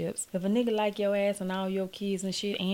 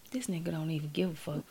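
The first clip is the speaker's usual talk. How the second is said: exasperated whisper; 2 semitones lower, 6 dB quieter than usual. Real, not acted. Aside about the dog.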